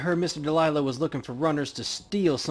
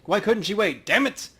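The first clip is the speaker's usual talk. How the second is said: frustrated outburst; 7 semitones higher, 5 dB louder than usual. Acted. Paco frustrated his friend left.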